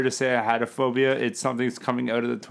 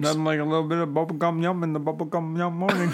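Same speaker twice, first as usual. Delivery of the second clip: mock ad voice; 3 semitones higher than usual. Parodies the candy jingle, laughing.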